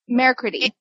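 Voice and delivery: Mercury said as French Mercredi, mair-kri-dee; suggested French pronunciation. Shown as a demonstration. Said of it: "but I think it's".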